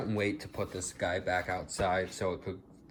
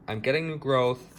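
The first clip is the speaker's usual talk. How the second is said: excited; 5 semitones higher, 6 dB louder than usual. Real, not acted. Delight at new growth after complaint.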